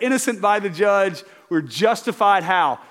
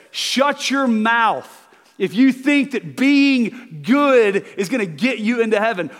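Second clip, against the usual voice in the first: loud, slow, stern command; the Bible rebuking the congregation, loud and slow; stern rebuke; 4 semitones higher, 4 dB louder, slower than usual. Acted. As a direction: lay down the law to them. Voices the Bible rebuking listeners.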